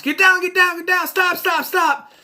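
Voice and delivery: very high, loud imitation of panicked shouting; hammed-up screaming orders; mock yelling at top of lungs. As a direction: shout it in frantic repeats. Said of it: "yelling at the top of your lungs".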